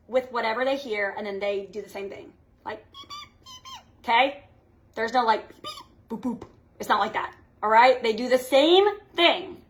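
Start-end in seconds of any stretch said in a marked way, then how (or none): 2.9-3.8 very high squeaky beeps like a bug; grasshopper chirp. Retold or imitated. 5.5-6.5 mock beeps. Mocking what grasshoppers don't do.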